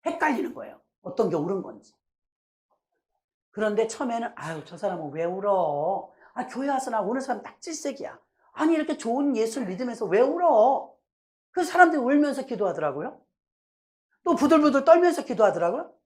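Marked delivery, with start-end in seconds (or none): 4.4-10.9 mildly disdainful grumble; inner contempt. Retold or imitated. Newcomer privately scorning weeping worshippers, contemptuous. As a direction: drag out the complaint with mild scorn. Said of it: "속에서는 경멸했어요".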